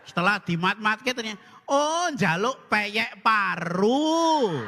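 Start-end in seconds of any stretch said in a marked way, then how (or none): 1.6-4.6 slow realisation. Acted. Realisation, drawn out.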